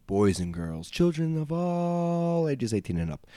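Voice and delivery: booming circus ringmaster announcement. Acted. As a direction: welcome the crowd like a circus ringmaster. Podcast host opens like showman.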